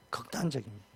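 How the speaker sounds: hushed second take of 극단적입니다; quiet repeat. Shown as a demonstration. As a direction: let 극단적입니다 fall away almost to a murmur. Repeats word, much softer.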